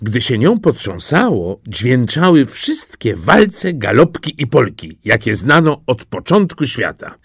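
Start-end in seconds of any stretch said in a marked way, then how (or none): none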